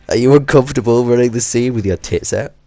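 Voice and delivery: laughing through the line. Real, not acted. Vlogger reading the director's crude line while cracking up. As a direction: read it while giggling at how crude it is.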